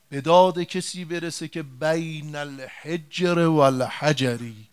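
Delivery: a mild mock cry, stretched out word by word; retold cry for help. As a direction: call out slowly, pleading from the mountaintop. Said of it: "فریاد زد".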